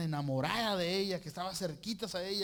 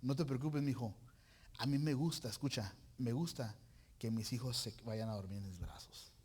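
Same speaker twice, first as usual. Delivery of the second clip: gentle voice of God; 4 semitones lower than usual. Acted. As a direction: speak like a loving father soothing his son. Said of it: "me dice el Espíritu Santo en mi corazón". (el Espíritu Santo tranquilizando con ternura a su hijo)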